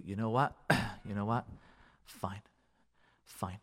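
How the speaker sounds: low, hushed, with long pauses; conceding spouse. Acted. Spouse backing down in an argument, quietly conceding. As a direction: give in quietly, bit by bit. Acting a spouse grudgingly giving in.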